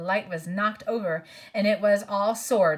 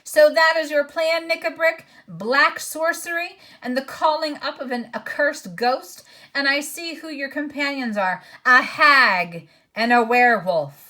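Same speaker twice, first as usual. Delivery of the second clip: higher and louder, a king's furious roar; voice like thunder; 5 semitones higher, 5 dB louder than usual. A narrator's reading. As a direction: thunder at the traitor. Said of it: "rose the voice of King Caspian like thunder".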